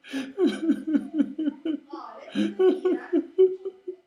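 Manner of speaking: high, rapid repeated animal noises; loud high burst of pulsing cries; bear jabber. Acted. Bear noises after the protest.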